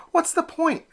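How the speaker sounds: high, plaintive question; a small duck who wants out; whiny little duckling. Acted. Elmer doubts baseball.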